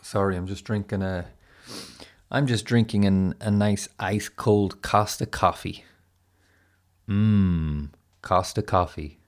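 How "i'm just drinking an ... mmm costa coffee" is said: mock advert. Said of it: "that's the kind of plugging".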